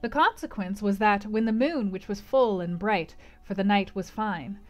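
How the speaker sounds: measured literary read-aloud; story narration. A narrator's reading. Narrator recalls waking under the moon, measured storytelling. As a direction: tell it as a classic novel's narrator.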